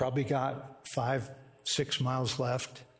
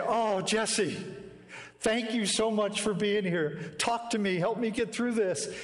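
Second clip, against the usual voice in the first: grateful plea; 6 semitones higher than usual. Retold or imitated. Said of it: "I'm not yelling at him. I'm saying".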